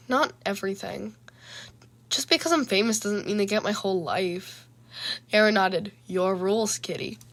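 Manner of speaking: measured, even storytelling voice; narrator's steady read-aloud delivery; story narration. A narrator's reading. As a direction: read the chapter aloud, letting each phrase land.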